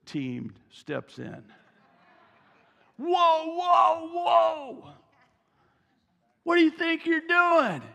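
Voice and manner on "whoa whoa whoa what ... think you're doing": higher, louder shouted whoa whoa; mock guard yell. Disciples shouting at parents to stop, mock angry yell. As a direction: bark them back like bodyguards. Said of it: "they yell at the parents".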